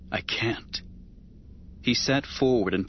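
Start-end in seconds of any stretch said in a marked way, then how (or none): 0.1-0.8 voiceless whisper; hushed, desperate whisper. Acted. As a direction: breathe it out without voice. Desperate plea to Padme.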